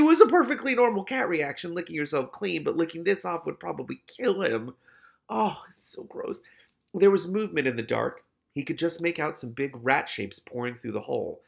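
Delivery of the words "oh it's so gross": high, slow disgusted comment; grossed out. Real, not acted. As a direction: say it utterly disgusted. Reader reacts to the story.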